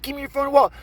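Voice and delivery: high, loud mock mugger; acted robber's demand. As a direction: fire the order at the victim.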